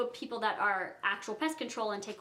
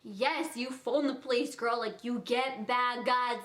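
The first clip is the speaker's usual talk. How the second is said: angel on her shoulder. Retold or imitated. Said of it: "an angel and a devil on each shoulder".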